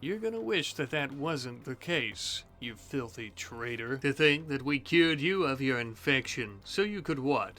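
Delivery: slow gloating villain taunt; menacing captor. Acted. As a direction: savour every cruel word. Taunting captured traitor in roleplay.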